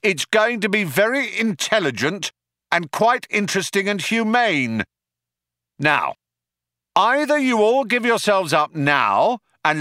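high, projected ultimatum; earnest speechifying called across a distance; cop shouting terms. A narrator's reading. Cop gives the fugitives a choice, shouting. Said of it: "shouted the cop".

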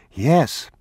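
put-on high child's voice; small, high boyish answer; young boy. A narrator's reading. Boy answering his father, high childlike voice.

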